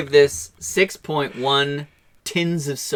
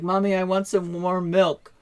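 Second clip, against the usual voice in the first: imitating a young daughter, higher pitch; little girl voice; 7 semitones higher than usual. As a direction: pipe up like a small child. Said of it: "her daughter comes out of the room".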